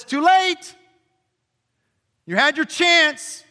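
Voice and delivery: high, loud scornful God voice; mock a cold, unforgiving God; mock harsh God. Pastor mocking a wrong picture of God, scornful.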